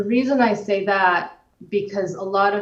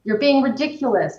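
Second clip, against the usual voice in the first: higher-pitched mild mock scolding; mock parental scolding; 5 semitones higher than usual. Parent snapping back at an upset child, mild mock scolding. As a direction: lightly imitate a parent telling off a child. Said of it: "starts screaming back at them".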